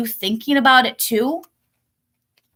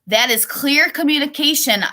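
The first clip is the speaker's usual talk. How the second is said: higher-pitched, emphatic "That is clear communication"; 5 semitones higher than usual. A narrator's reading. Marley stressing "That is clear communication" to friends, emphatic. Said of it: "Marley emphasized".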